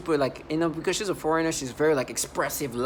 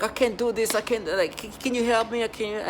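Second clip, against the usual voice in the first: higher, whiny mock of the coworker; mock dramatic coworker; 6 semitones higher than usual. Mocking a dramatic coworker's helpless whining to the listener. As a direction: ham up her helpless plea. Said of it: "she'll be like".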